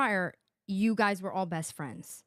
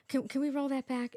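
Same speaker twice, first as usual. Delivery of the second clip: mock Meredith; 4 semitones higher than usual. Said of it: "She's like".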